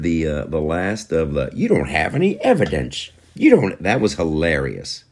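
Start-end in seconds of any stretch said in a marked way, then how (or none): 1.5-3.8 mocking whine. Mocking Democrats' line.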